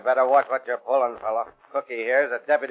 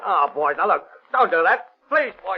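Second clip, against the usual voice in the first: higher, frantic begging; desperate pleading; 7 semitones higher than usual. Acted. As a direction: beg them to stop. Blackie begs as feet burned.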